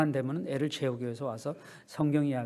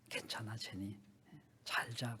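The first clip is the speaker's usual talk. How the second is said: father whispering goodnight, softer; gentle whisper; 5 semitones lower, 11 dB quieter, slower than usual. Acted. Father whispers goodnight to sleepy daughter, hushed. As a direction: hush it softly like tucking a child in.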